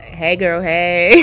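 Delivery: bright greeting. Shown as a demonstration. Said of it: "I need you to be like".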